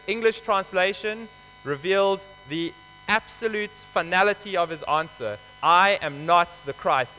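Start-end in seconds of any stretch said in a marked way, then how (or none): 5.6-7.1 slow and louder, every word final; emphatic denial. Acted. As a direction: deny it flatly and with finality. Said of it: "Emphatically, definitively".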